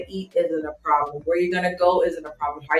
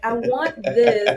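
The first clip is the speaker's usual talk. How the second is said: demanding customer; 5 semitones higher, much slower than usual. Retold or imitated. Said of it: "'cause I was like".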